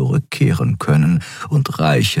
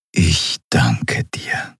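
slow, slightly lower mentor voice; gelassener Mentor; 4 semitones lower, much slower than usual. Acted. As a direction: draw out the thanks slowly and calmly. Mentor figure thanks her. (langsame, ruhige Mentorenstimme)

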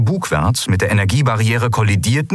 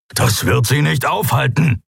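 raging; 6 semitones higher than usual. Acted. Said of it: "wütete Keru".

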